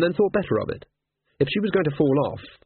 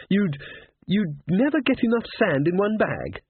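uncertain; 7 semitones higher than usual. A narrator's reading. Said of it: "in tones of uncertainty".

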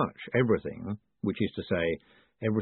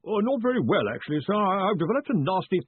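nervous caller; 9 semitones higher than usual. A narrator's reading. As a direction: announce yourself timidly to a superior far away. Collarbone answers from afar.

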